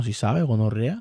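drawn-out mock Colombian accent at the end. Shown as a demonstration. Streamer demonstrating his accents to viewers, Colombian accent. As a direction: lay on Colombian street slang, stretching the tag question. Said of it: "Se me puede salir hasta el acento colombiano".

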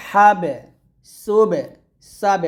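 হাবে, সুবে, সাবে each bounced on ব; qalqala. Shown as a demonstration. Teacher listing qalqala examples, হাবে, সুবে, সাবে with bounced endings. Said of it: "এগুলো কলকলা".

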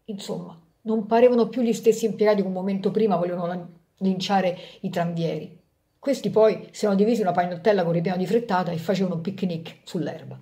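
lively storyteller voice for a fable; story narration. A narrator's reading. Narrator telling a fable to parents, storytelling. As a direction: read it like a bedtime tale for grown-ups. Reads Rodari fable aloud.

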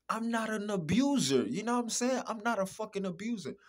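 loud, high protest of innocence; loud insistence. Real, not acted. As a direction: shout the denial. Insisting hotly he's no abuser.

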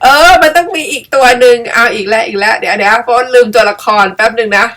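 plain reading voice

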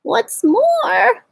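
high, sharp, irritated snap; snapped. A narrator's reading. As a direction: bite the words off in annoyance. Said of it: "snapped the Lorax, his dander was up".

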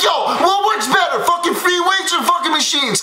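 mock-shouted fanboy question; excited fan kid. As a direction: play the hyped-up young fan yelling his question. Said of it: "he's like".

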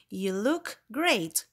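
slow repeat, falling on GREAT; exclaimed again. Shown as a demonstration. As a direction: repeat the compliment with warmth.

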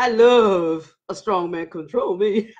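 drawn-out, playful confession breaking into laughter; joking mock swoon. Host joking to viewers about a strong man, playfully laughing. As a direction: stretch it out teasingly, then crack up. Teasing joke, then laughs, just kidding.

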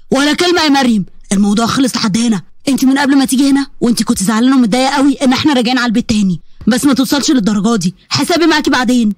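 a hint of a stern angry husband. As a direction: shut her down with a cold scolding. Ahmed scolding his wife.

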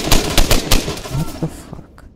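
slow, drawn-out stunned exclamation; shocked disbelief. Real, not acted. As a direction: stretch it out in disbelief. A teammate suddenly goes down.

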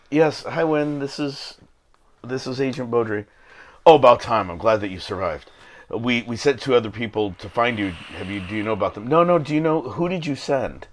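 lightly voiced phone call, both sides; two voices. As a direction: trade two barely different voices. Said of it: "please do both voices".

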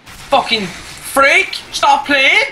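slow, high furious yell at the screen; angry yell. Real, not acted. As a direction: scream him out of the game. Rage at teammate Harry.

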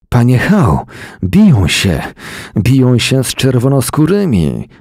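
put-on breathless young messenger raising the alarm; panting alarm. A narrator's reading. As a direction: blurt out the bad news as if winded. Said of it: "wydyszał chłopak".

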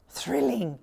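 a touch of hushed wonder, lightly voiced; awed. A narrator's reading. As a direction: say it like a child impressed by magic. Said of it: "said with awe".

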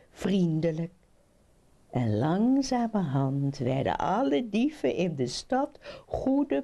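put-on lively children's storytelling; animated fairy-tale narrator; story narration. A narrator's reading. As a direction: read it to children with rising, swinging lines.

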